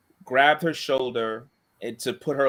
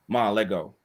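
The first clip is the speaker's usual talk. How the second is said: steady, even and lower, no rise or fall; calm monotone; 4 semitones lower, 3 dB quieter than usual. Retold or imitated. To the mother gripping the girl's hair, calm monotone. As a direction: talk her down flat and calm, like a cop. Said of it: "I got a monotone voice".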